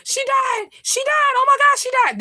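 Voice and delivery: high, loud sobbing cry of grief; imitated crying shout. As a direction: mimic her wailing that the aunt died. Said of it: "she's like".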